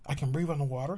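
put-on proud little child.

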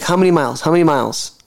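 lightly voiced halting foreign driver; imitated Uber driver. Driver questioning his passenger, lightly imitated limited English. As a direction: mimic a driver with very little English. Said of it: "he could barely speak English".

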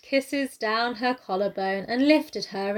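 slow, measured preacher's delivery; mock sermon reading. Imitating audiobook narrator to co-host, slow sermon-like reading. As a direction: read the love scene like a solemn sermon. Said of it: "read it like a fucking sermon".

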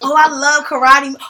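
high, hammed-up eager gushing; exaggerated excited agreeing, voice shooting up; mock eager me-too voice. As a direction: squeal like an overeager date agreeing with everything. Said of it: "every time you say".

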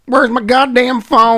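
high, loud, slow panicky voice; hammed-up frantic person searching; mock panic.

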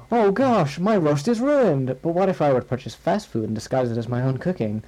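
a lightly voiced Skinner caught out with a ruined roast; flustered Skinner. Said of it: "the doorbell rang".

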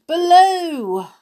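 high, loud call. Acted. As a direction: shout the name for help. Calling for the bear.

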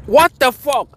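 a shocked outburst at full pitch; disbelief. Retold or imitated. Reacting to the video, high and loud in disbelief. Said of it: "I'm like".

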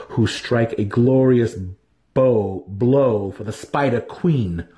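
slow, grand boasting cadence; proud drow warrior. Acted. Dinin telling Drizzt of the revenge raid: slow grand pride. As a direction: savour every word of the coming glory.

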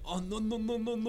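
high, soft run of objections; mock panicked protest. Acting out panicked protest to the guard.

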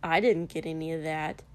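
a touch of a sulk; mildly sulking husband; half sulking. Acted. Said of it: "half sulking".

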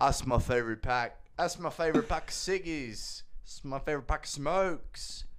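playful put-on Aussie; Australian accent. The speaker admires a cigarette pack, Australian accent. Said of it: "I wanna switch over to Australian".

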